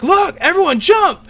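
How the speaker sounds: high, loud call to the crew. Acted. The speaker's character crying out to everyone to jump. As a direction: shout the order over the chaos. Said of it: "you cry out to everyone".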